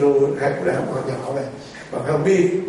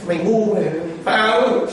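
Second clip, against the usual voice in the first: mock scolding; 4 semitones higher, 3 dB louder than usual. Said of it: "Peter mới chửi nó rồi".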